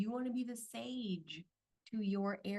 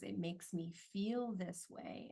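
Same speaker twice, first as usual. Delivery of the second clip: non-defensive tone; slower than usual. Shown as a demonstration. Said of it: "in a non-defensive, non-combative tone".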